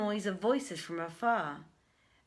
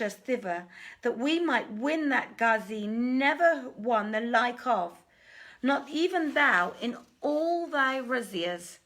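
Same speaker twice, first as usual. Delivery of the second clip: high, loud, urgent merchant voices pleading; 5 semitones higher, 5 dB louder than usual. Acted. Merchants complain to the king of robbery, high and loud pleading. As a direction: beg the king for justice, raised and fast at first.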